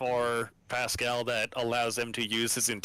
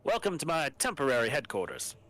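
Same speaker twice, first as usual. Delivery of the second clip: lightly voiced formal governor; a hint of a stern military governor; Medina voice; 3 semitones higher than usual. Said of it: "You can voice Medina".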